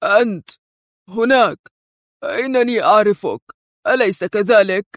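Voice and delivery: sternly. Acted. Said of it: "قائلا في صرامة".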